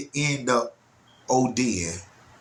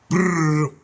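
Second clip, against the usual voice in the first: stomping brrr; 6 semitones higher, 4 dB louder than usual. Shown as a demonstration. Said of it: "like that".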